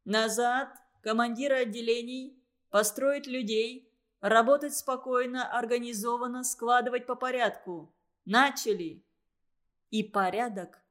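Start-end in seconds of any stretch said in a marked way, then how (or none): 0.0-9.0 calm command. Acted. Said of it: "спокойная команда остановила их".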